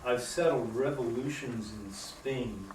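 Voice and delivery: measured, clearly articulated poetry reading; poem reading. Acted. Poet reads a history poem about a signature song to an audience, measured reading. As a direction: read it out evenly, phrase by phrase.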